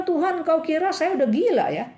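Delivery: high, loud, fast scream of panic; screaming in disbelief. Retold or imitated. Man clinging to the rattan screams back at God, high and fast. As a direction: shriek at God that he'd be mad to let go. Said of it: "Lalu dia menjerit".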